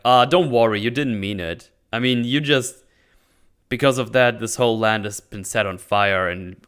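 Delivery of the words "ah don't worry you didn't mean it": dismissive version. Shown as a demonstration. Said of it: "and not like".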